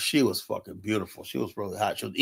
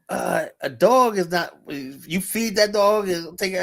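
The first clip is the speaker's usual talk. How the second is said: slow, higher disapproving voice; imitating the woman; 6 semitones higher, slower than usual. Woman scolds narrator about keeping a dog, slow high voice. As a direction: lay it out slowly, baffled.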